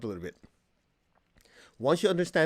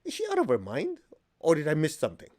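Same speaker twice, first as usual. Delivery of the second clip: disbelief; 3 semitones higher than usual. Retold or imitated. Retelling his disbelief on phone.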